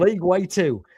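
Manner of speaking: "League Way two" drawled Southern, high and loud; deep south accent. Shown as a demonstration. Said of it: "a real thick Southern accent right there".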